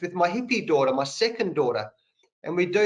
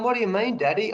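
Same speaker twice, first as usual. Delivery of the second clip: put-on little girl's voice; 5 semitones higher, faster than usual. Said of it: "She's going".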